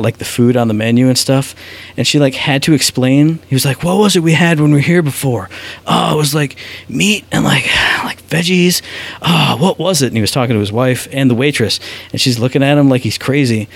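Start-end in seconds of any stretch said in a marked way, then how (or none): 3.8-10.1 mock groping for the word, partly whispered; imitated puzzled diner. Canadian diner asking the waitress about food, imitated puzzlement. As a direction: imitate a diner straining to remember, with sighs. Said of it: "didn't know he was Canadian".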